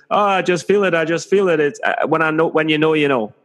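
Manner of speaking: high, gushing believer impression; pious believer. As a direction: gush it like a true believer. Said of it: "the religious people will be like".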